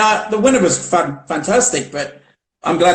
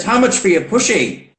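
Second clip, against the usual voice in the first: Australian guy's question; 3 semitones higher than usual. Retold or imitated. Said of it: "an Australian guy came up to her and he said".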